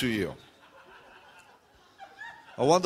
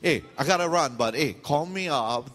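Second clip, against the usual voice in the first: mock chummy goodbye; fake friendly parting. Fake friendly parting, then true thought.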